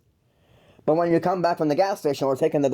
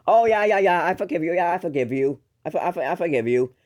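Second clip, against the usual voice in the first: higher-pitched, put-on agreeableness; fake forgiveness; 4 semitones higher than usual. Younger sibling masking hurt from a brother, falsely forgiving. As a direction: gush a pretend "all is forgiven". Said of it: "putting on the mask and be like".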